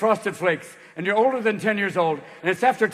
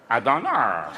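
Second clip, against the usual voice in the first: dim deep lug; 9 semitones lower, 3 dB quieter, slower than usual. Acted. Bubba answers.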